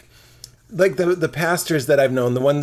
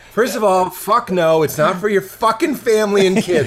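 exasperated rant; 3 semitones higher, 3 dB louder than usual. Retold or imitated. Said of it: "I'm like".

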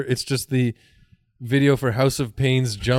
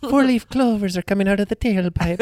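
talking car voice; 6 semitones higher than usual. Acted.

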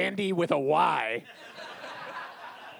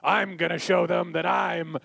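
movie hero; slower than usual. Retold or imitated. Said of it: "someone being like".

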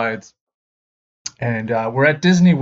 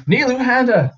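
name called out high; roll call; 13 semitones higher, 3 dB louder than usual. Retold or imitated. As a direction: announce each student's name. Names read in gym.

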